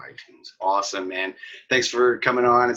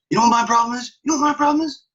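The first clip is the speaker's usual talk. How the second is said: very high, loud screaming tantrum, imitated; mock meltdown yelling; hammed-up furious shout; 7 dB louder than usual. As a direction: build to a full screech at the clerk. Retold traveler explodes at clerk.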